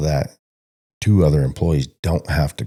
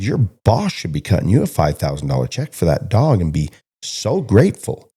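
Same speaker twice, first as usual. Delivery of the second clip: incredulous lecture; 4 semitones higher than usual. Retold or imitated. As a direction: demand he say it again in disbelief. Retold lecturing of the cowboy.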